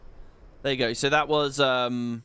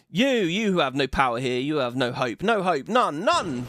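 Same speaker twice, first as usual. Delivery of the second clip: Garuda voice. Acted. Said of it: "I could do a much more harpyish, shrill voice".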